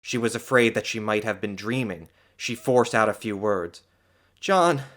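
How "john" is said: high, loud and elated; overjoyed, scarcely believing it; jubilant. A narrator's reading. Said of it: "She laughed and cried jubilantly".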